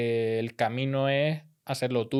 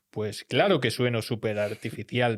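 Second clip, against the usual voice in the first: documentary voice; 2 semitones lower than usual. Shown as a demonstration. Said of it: "es como una voz de documental".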